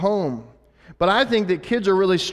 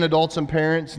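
usual speaking voice

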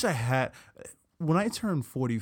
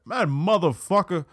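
hint of a forceful older man, pitched up; powerful older Black man; 4 semitones higher, 3 dB louder than usual. Shown as a demonstration. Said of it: "older black men say motherfucker more powerfully".

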